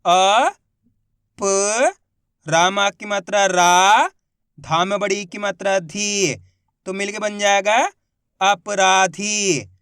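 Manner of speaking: slow, loud, one syllable at a time, then the whole word drawn out; patient teacher spelling aloud; syllable-by-syllable reading drill. Shown as a demonstration. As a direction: sound out each syllable clearly for a child, then blend it slowly. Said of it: "देखो किस तरीके से है".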